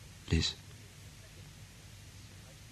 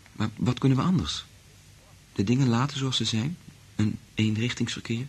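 urgent pleading; 6 semitones higher than usual. Acted.

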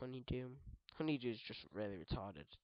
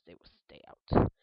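louder, lower mock threat; 9 semitones lower, 17 dB louder than usual. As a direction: declare it like a fortress guard. Loud declaration.

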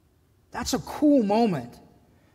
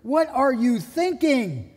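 higher, slowed, scolding disbelief; exasperated rebuke; 4 semitones higher than usual. Retold or imitated. Jesus chides Peter for swinging the sword, exasperated rebuke. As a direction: scold Peter like a let-down friend. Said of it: "that tone of voice too".

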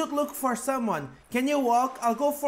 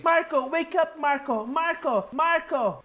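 calling to wake; 3 semitones higher than usual. Acted. Sister calling to wake Marco.

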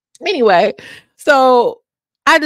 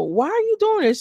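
mock exasperated plea; 13 semitones higher than usual. Onlooker asking Mariah.

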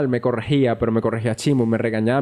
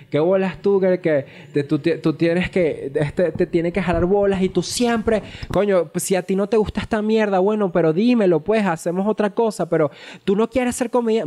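angry yelling; 5 semitones higher than usual. Retold or imitated. Partner berating comedian about stand-up, imitated angry yelling. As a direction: imitate a furious rant, pitch climbing as it goes. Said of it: "No, gritándome arrecho".

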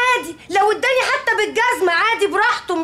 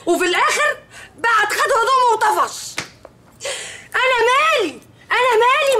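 tearful; 4 semitones higher than usual. Acted. Wife complains crying to mother.

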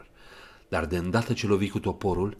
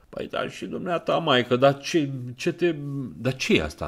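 put-on old woman voice; 7 semitones higher, 6 dB louder than usual. Old pawnbroker voiced in story.

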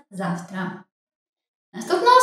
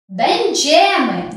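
Będziemy slow, the stress landing on "dzie"; stress on the second-to-last syllable; much slower than usual. Shown as a demonstration. Teacher marks the stress in Będziemy for the class. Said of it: "на другий склад з кінця".

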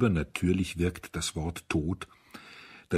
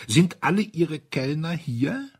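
quiet rough tone; 9 semitones higher, 4 dB louder than usual. A narrator's reading. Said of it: "in seinem leisen, rauen Tonfall".

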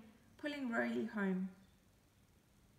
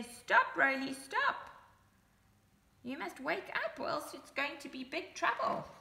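loud high stop; cat shouting to wake Roly; urgent calling out; 5 semitones higher, 3 dB louder than usual. Acted. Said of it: "He's trying to say".

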